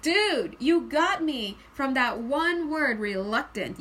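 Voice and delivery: mock amazement, leaning hard on the first words; astonished viewer. Reader voicing viewers caught by one word, astonished.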